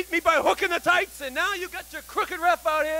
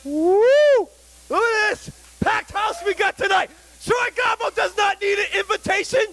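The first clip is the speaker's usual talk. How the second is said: wrestling promo; 3 semitones higher than usual. Acted. Wrestler hypes the crowd.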